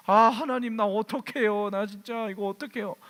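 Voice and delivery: high, pleading cry to God; desperate prayer. Retold or imitated. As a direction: beg God for help, half-panicked. (다급하게 하나님께 부르짖는 기도)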